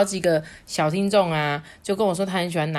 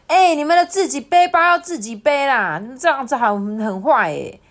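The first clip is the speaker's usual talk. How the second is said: loud, high-pitched indignant protest easing off; scolding; 8 semitones higher, 7 dB louder than usual. Acted. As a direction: tell off naughty classmates, starting high and loud. Classmates scold the bullies.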